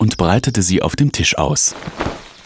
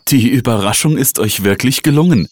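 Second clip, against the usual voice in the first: higher, delighted praise; beaming with joy; 6 semitones higher than usual. A narrator's reading. Mother to her children, overjoyed. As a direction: let happiness lift the voice. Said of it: "sagte sie freudestrahlend".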